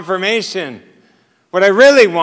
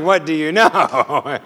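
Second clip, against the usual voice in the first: laughing; 4 semitones lower, slower than usual. Retold or imitated. Exasperated at clueless helper.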